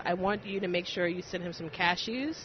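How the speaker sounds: normal talking voice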